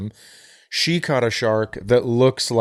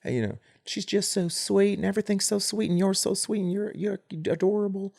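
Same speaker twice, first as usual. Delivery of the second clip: sugary Southern lady voice; Southern accent; 6 semitones higher, 8 dB quieter than usual. Retold or imitated. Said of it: "she speaks with a Southern accent".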